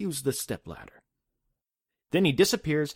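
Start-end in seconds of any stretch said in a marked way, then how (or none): 0.0-1.0 gentle, soft, soothing and comforting voice. Retelling a story where a figure appears and gives advice: retelling in a comforting voice. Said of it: "He says it in a comforting voice".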